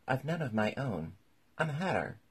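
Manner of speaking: a defensive, high-pitched explanation; Hatter explaining. A narrator's reading. Hatter explains himself to king.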